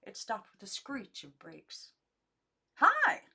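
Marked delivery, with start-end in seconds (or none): 2.8-3.2 high, loud shout from outside; loud call. A narrator's reading. Nora arriving, shouting to the cabin, loud high hail. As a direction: hail them from the truck at full voice. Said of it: "a woman's voice called".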